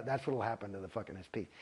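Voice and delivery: normal talking voice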